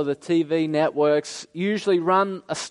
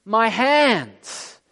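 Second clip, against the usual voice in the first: mock scream of pain; 3 semitones higher, much slower than usual. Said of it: "He doesn't scream".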